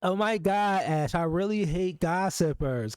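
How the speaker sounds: slow, drawn-out mimic of a gushing texter; mock him dramatically; mocking quote. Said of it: "That nigga said".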